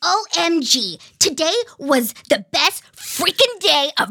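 lightly voiced kid reading diary; pinched voice. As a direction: read it like an excited young girl. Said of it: "I'm gonna do my kid voice".

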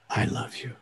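put-on soft, low hush to a crying child; tender comfort. Grandpa embracing the devastated child, soft and tender. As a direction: murmur it close, tender and soothing.

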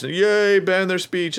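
squeaky mocking yay; mock cheering crowd. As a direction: parody people applauding censorship. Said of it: "and this".

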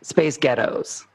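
slow Scottish "Space Ghettos"; Scottish accent. Shown as a demonstration. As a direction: say it Scottish, slowly. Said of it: "with a Scottish accent".

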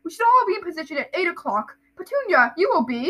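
pompous uncle giving orders; Uncle Vernon. Acted. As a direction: announce the plan self-importantly. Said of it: "that's Vernon".

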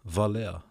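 Valea said with a V sound at the start; stumbling on Valea. Real, not acted. Podcaster fumbling a Hawaiian place name, says Valea. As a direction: slips into a V on Valea. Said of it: "I don't know why I cannot say wa".

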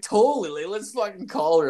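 high-pitched imitation of keen friend; mock eager agreement. Imitating co-host agreeing to call sister, mock eagerness.

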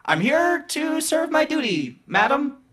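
very high, slow robotic formality. Acted. Robot reporting for duty to the half-orc, high and slow.

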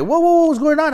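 high, loud startled whoa; alarmed guard. Retold or imitated. Guards stopping the driver at the gate, high and loud. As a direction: halt him like a startled guard.

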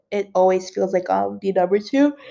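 words swallowed by a real yawn; yawning while talking. Real, not acted. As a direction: talk through a rising yawn. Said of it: "I'm so sorry for yawning".

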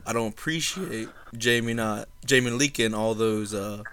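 a hint of a genteel Savannah accent. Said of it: "Say your best Savannah accent".

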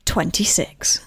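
slow drawn-out bingo call; bingo caller. Acted. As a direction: call the number like a bingo hall. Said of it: "wait for my bingo call".

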